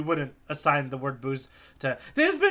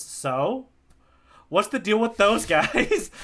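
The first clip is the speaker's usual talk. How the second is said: Zoro quote, laughing; 3 semitones higher, much slower than usual. Retold or imitated. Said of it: "Zoro goes".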